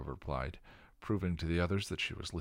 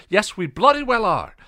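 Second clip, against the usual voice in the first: full-force furious yell, much higher; yelled back; 18 dB louder than usual. Acted. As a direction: bellow it right back at her. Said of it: "Giles yelled back".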